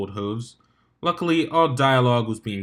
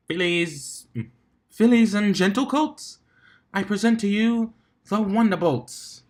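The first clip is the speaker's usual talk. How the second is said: stadium announcer; 9 semitones higher than usual. A narrator's reading. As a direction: present the team to a roaring crowd. Announcer introduces the Wonderbolts.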